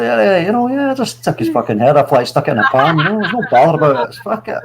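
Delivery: mock Scottish accent, lightly done, laughing by the end. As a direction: imitate a casual Scottish killer shrugging it off. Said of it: "with his Scottish accent".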